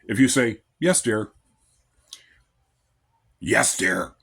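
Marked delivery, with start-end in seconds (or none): 0.8-1.3 a willing, kind "Yes, dear."; sweet yes dear. Shown as a demonstration. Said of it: "it's how you say it". 3.4-4.1 "Yes, dear." dropped low and grumbled out; a begrudging "Yes, dear." with the words growled; reluctant husband grumbling at his wife; grudging yes dear. Shown as a demonstration. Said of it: "Notice the difference".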